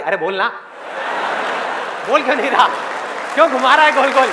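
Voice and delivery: pressing, fed-up heckle; impatient listener. Acted. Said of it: "सबके अंदर से आवाज आ रही".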